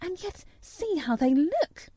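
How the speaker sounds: fretting nurse, pitch climbing at the end; a touch of puzzled alarm; lightly voiced worried nurse. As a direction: fret over them, voice lifting. The nurse frets over children.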